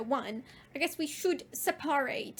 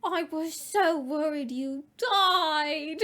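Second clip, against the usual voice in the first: moaning; 3 dB louder, slower than usual. Acted. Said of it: "Moaned Vampire".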